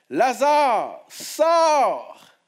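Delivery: high, loud cry; loud command. Acted. Jesus cries out to Lazarus in the tomb, a ringing shout. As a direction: call the dead man out. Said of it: "il cria d'une voix forte".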